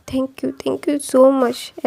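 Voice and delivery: very slow, drawn-out tearful thank you; mild retold sob in a slow thank you. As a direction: stretch each word out like you're about to cry. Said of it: "ऐसा बोल के ना वो रोने लगा था".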